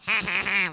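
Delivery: mimicked mocking laugh. Friend denying she laughs at criers, mock laugh. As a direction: fake a taunting "ha, ha, ha". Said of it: "it's not like".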